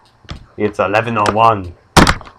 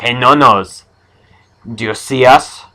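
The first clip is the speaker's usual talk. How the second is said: loud teasing call-out; mock taunting; 3 semitones higher, 4 dB louder than usual. Bullies checking if No Nose is blind, mock taunting. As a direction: imitate bullies hailing their victim loudly.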